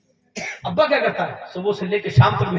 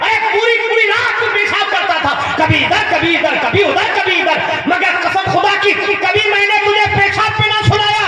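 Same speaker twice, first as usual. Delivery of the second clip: higher and louder, fervent and pleading; impassioned sermon climax on a mother's sacrifice; full-force preaching; 10 semitones higher, 5 dB louder than usual. Acted. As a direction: let the mother's devotion pour out at full pitch. Voices mother's impassioned reply.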